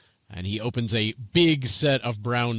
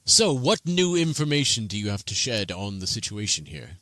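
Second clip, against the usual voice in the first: placating. Acted. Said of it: "waves his hands and says".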